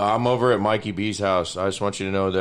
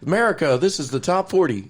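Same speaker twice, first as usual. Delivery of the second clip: higher, louder countdown host; Casey Kasem impression; 8 semitones higher, 4 dB louder than usual. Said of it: "You sound like fucking Casey Kasem".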